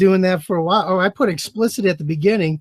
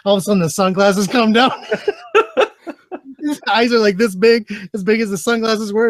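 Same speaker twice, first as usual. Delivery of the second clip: laughing while talking; 3 semitones higher than usual. Real, not acted. Tells the story while laughing.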